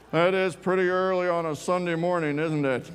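amused, half laughing at the early hour. Real, not acted. Laughing at early Sunday service.

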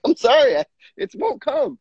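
wife pushes him to cry, he laughs it off; mock helpless apology. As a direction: plead with a giggle, helpless. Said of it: "I'm like".

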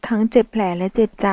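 usual speaking voice

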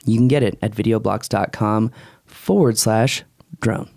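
upbeat, measured ad pitch; host's conversational ad read; podcast sponsor read. Real, not acted. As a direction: sell it with punched key phrases. Reads the sponsor ads.

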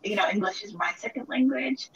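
crying while remembering; real crying. Real, not acted. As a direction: voice breaking into tears. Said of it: "to the point where I did cry".

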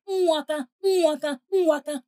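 rhythmic mimicked sounds; imitated noise. Telling madam what the couple did, imitated noises. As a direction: repeat it as a mimicked noise from behind a door. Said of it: "Ils ont fait".

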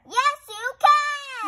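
慢慢地高声坚持; 耐着性子一遍遍劝说; slow insisting. A narrator's reading. Piggy insisting to Gerald.

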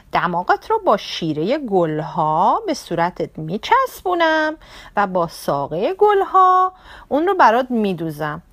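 a touch of cheerful ladybug voice. Acted. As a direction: reassure him brightly. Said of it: "بازم خندید و جواب داد". (بابا کفشدوز با دلگرمی)

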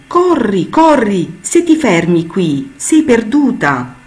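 put-on the older clouds urging the young cloud, loud and high. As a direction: spur her on, loud and high. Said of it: "la incitarono".

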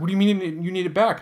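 high, fast, disbelieving protest; incredulous retold reaction. Telling how the maker asked for the knife back, incredulous and high. Retelling shock at returning knife.

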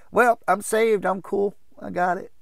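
high, loud mock-breezy voice; complacent believer. Preacher mocks someone who thinks they are saved, high put-on voice.

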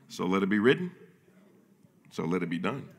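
a hint of a movie Pharaoh; Pharaoh decree. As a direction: pronounce it like a pharaoh. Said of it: "my favorite scene in the Ten Commandments".

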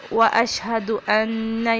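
أَنَّ with nasal ghunna; correct recitation. Shown as a demonstration. Teacher demonstrating ghunna. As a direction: hum the nun in أَنَّ. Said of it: "یہاں پہ غنہ کریں گے".

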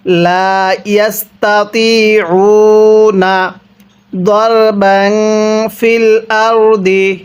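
the three words run together without a break; একটানা মিলিয়ে পড়া; joined recitation. Shown as a demonstration. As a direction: recite it joined, in one flowing line. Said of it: "মিলিয়ে পড়ুন".

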